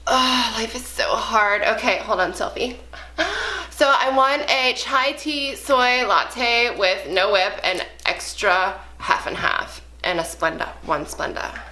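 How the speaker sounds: put-on whiny Valley Girl ordering coffee. Shown as a demonstration. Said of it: "Best Valley Girl impression ordering Starbucks".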